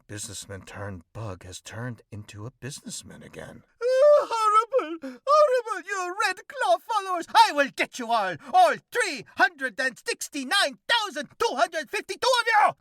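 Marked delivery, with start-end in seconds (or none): 3.8-12.7 high, loud, mock-heroic vigilante voice; hammed-up cockroach hero. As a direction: declaim like a pompous masked avenger. Cockroach rants at Red Claw.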